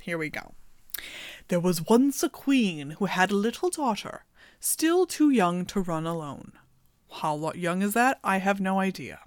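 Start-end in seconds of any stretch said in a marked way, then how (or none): 1.5-6.5 calm storybook read-aloud; reading a fairy tale to her audience; story narration. A narrator's reading.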